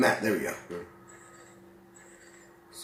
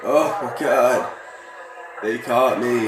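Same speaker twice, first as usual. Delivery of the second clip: shocked outcry; 3 semitones higher, 7 dB louder, much slower than usual. Real, not acted. Caught by police in game.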